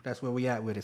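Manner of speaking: talking around a cigarette; words through a cigarette, mid-drag; cigarette in mouth. Real, not acted. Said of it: "Sorry, I be, I be smoking".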